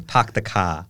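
park the car as pahk the kah; R dropped in park and car; dropping the r. Shown as a demonstration. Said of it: "dropping the R's".

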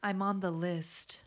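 breathy slow whisper. Retold or imitated. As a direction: whisper it slowly, smug. Mimics confident list claim.

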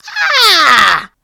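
high, loud shocked cry of disbelief; ah! gasp it out in disbelief; shocked exclamation. Retold or imitated. Shocked tasting fufu.

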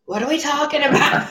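hammed-up clueless American, voice rising; mock American. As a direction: play a confused American, half laughing. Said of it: "I'm gonna be like the American".

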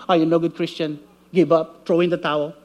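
voice of condemnation. Retold or imitated. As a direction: drag them down, voice of the enemy. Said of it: "Condemnation will say to you".

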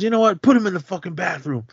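high, punchy gangster command; mock mobster order. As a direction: bark it like the boss ending the argument. Retold mobster Sonny giving orders.

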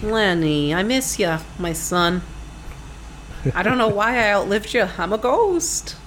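lightly voiced grieving old mother; a hint of a mournful mom; man doing a woman's voice. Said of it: "I do an impression of his mom".

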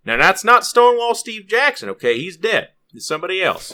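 loud, high, slowed imitation of an indignant explanation; imitated correction. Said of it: "he goes".

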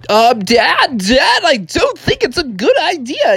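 put-on high, uneasy kid voice; worried frog son. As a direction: warn Dad as a little frog. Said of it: "And so Froggy's like".

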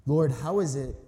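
measured, solemn reading of scripture. Acted. Preacher reading John to the church, solemn and measured. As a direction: read the passage aloud to the congregation.

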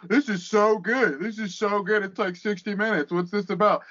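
lightly put-on fan rapture; mock gushing fan. Imitating online fans raving over one match, mock gushing. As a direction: parody someone blown away by a match.

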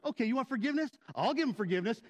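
mock-furious challenge; indignant, sarcastic retort; acted fury. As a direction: throw it out like an angry dare. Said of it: "I was furious, so I'm walking around going".

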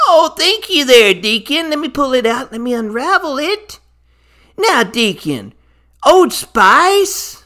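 lightly voiced Grinch opening a present. Deacon hands over soap, Grinch reacts in a light Grinch voice. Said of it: "So, Grinch, here you go".

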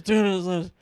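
loud excited shout of a bet; excited bid. Retold or imitated. Intern raising the bet on a dare, loud excited shout. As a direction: yell the bid, hyped. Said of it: "just that excitement".

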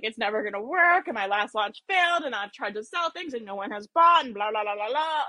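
a mild mock lament; lightly hammed-up self-pity; a touch of melodramatic complaining; dramatic moaning. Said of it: "So dramatic, right?".

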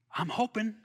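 chuckling through the words; laughing. Real, not acted. Pastor repeating his hope to the congregation with a chuckle. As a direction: laugh it out softly. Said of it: "but I'm hoping".

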